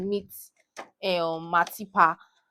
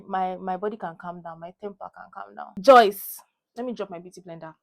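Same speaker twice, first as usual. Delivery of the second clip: usual speaking voice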